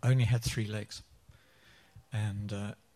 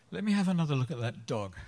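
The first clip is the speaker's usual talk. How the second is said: laughing; 5 semitones higher, faster than usual. Real, not acted. Punchline said laughing.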